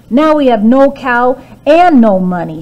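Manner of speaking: mother despairs over the lost cow; upset mother. A narrator's reading. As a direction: wail at the loss. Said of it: "she said".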